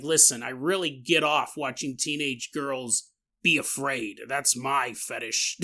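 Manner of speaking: a hint of a sleazy gnome character; slightly changed voice. Gnome confessing to the boy, slightly altered voice. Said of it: "I did change the voice slightly".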